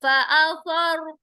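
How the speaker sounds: slow drawn-out tajweed chant; slow Quranic recitation. Shown as a demonstration. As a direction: recite each syllable slowly, melodically. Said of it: "रा साकिन से पहले जबर आ रहा है".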